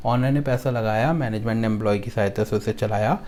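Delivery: line-by-line memory chant, each line ending on a lift; song-like mnemonic recitation. Shown as a demonstration. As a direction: recite it rhythmically for students to repeat. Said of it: "एक गाने की तरह बनाया हमने". (गाने की तरह याद कराने वाला पाठ)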